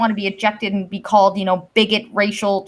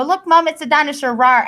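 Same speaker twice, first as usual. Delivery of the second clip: put-on child voice; 5 semitones higher, 3 dB louder than usual. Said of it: "and they go".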